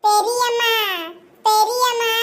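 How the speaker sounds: high tearful calling; crying call. Acted. Child calling aunt tearfully, crying high. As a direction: whimper for auntie.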